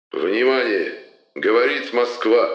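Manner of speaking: booming solemn state announcer; Levitan announcer voice. Acted. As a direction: proclaim it like wartime radio. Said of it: "глубокий торжественный голос Юрия Борисовича Левитана".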